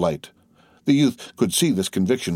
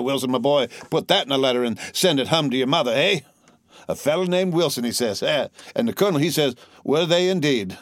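higher-pitched, eager soldier's yarn; excited young soldier storyteller; 6 semitones higher than usual. A narrator's reading. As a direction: relay thrilling news to comrades. Soldier quoting colonel and lieutenant.

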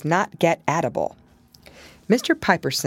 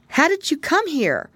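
a touch higher, curious; lightly voiced young pig; 12 semitones higher than usual. Pigling asks Pigwig in surprise. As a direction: ask in surprise. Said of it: "asked Pigling Bland".

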